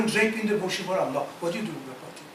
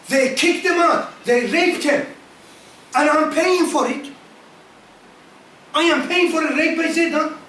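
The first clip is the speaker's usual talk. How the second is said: rising outrage; 5 semitones higher, 3 dB louder than usual. Real, not acted.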